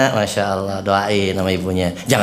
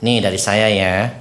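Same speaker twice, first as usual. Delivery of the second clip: slow, boastful listing of gifts; lightly voiced bragging donor; mock show-off giver; slower than usual. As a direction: play a donor bragging about her charity. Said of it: "nggak usah perlu sebut-sebut".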